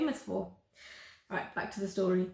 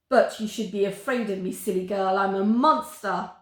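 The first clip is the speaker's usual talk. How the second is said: louder, blustering monster voice; indignant monster; 5 dB louder than usual. Acted. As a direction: puff up and scold her. Monster scolding the girl.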